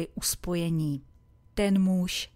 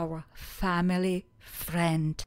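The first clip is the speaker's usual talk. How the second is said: slow model phrase. Shown as a demonstration. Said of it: "Opakujte po mně".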